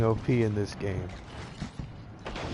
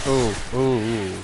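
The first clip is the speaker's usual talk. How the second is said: pained ooh after stubbed toe; 4 dB louder than usual. Real, not acted. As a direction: breathe through the toe pain. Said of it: "Sorry, I stubbed my toe".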